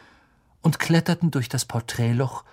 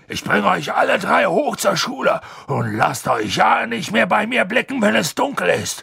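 higher, loud scolding giant; angry; 7 semitones higher, 3 dB louder than usual. A narrator's reading. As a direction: scold them angrily. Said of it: "sagte Hagrid zornig".

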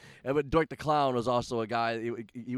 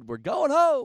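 much higher, shouted call; yelling across the ring; 13 semitones higher, 7 dB louder, slower than usual. Retold or imitated. Partner calling the finish across the ring to his manager, high yell. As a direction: holler it across a noisy ring. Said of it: "He'd yell across at me".

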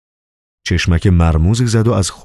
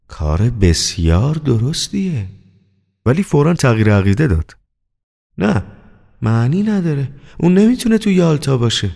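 Varenukha doubting; 7 semitones higher than usual. Acted. Manager talks himself out of it, doubting. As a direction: muse then reject the idea.

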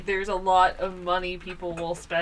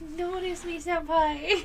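cat as anime fan; 8 semitones higher, slower than usual. Pretend.

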